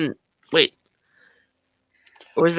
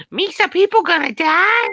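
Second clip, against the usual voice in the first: Jar Jar voice; 11 semitones higher than usual. Acted. Friends trading celebrity voice impressions.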